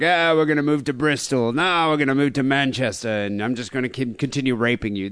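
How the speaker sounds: lightly voiced English fisherman; a hint of a rough-and-ready English accent. Podcaster imagining the father announcing moves, lightly voiced English fisherman. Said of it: "I'm picturing some English fisherman".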